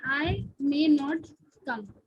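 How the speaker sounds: very slow, word by word example; slow dictation. Shown as a demonstration. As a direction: dictate the example sentence slowly. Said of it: "हम ये कहते हैं". (धीरे-धीरे उदाहरण बोलते हुए)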